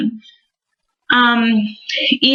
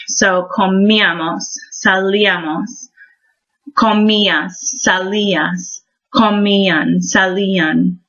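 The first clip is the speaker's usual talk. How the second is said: comíamos, salíamos, comías, salías, comían, salían, each stressed on the í; emphasis on the I. Shown as a demonstration. Teacher drilling accent marks, stressing í in comíamos, salías, comían. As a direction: lean on the í in comíamos, salíamos and each form after. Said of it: "hear the little emphasis that happens".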